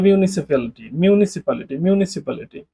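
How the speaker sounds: মিউনিসিপ্যালিটি said slowly, syllable by syllable; slow careful pronunciation. Shown as a demonstration. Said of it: "উচ্চারণ কেন করতে পারতেছেন না". (মিউনিসিপ্যালিটি ধীরে ধীরে স্পষ্ট উচ্চারণ)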